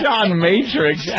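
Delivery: drawn-out mock German accent; slow, hammed-up German-accented name. Co-host announcing an action hero's name, slow German accent. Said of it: "With that awful German accent".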